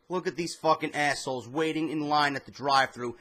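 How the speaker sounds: rising mock outrage at the drive-thru line; mock rant. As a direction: scoff at the lazy drive-thru crowd. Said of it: "I'm like".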